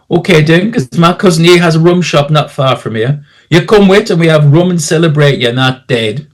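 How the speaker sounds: lightly voiced Caribbean local, inviting; a hint of a sociable Caribbean beach character; island local. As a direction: offer a drink like a friendly islander.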